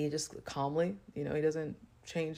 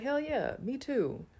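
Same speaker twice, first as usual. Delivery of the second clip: hyped up; 11 semitones higher, slower than usual. Retold or imitated. Hyped agreement with herself.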